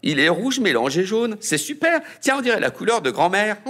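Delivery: high, fast, giggling tease; mock grandma while laughing; high laughing kid taunt; teasing laugh. A narrator's reading.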